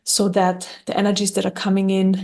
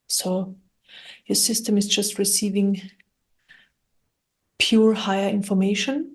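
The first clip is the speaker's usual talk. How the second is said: calm, even meditation guidance with long pauses; guided meditation. Acted. Guide talking listeners through clearing their energy, calm guided meditation. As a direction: guide gently, leaving long silences between phrases.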